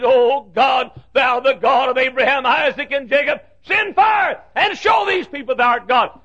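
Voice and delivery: rising, shouted call to God; fervent prayer. Acted. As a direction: Elijah calling down fire.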